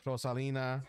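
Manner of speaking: "Rosalina" said with a Spanish accent, rolled r and pure vowels. Real, not acted. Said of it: "the Spanish accent comes out when I say her name".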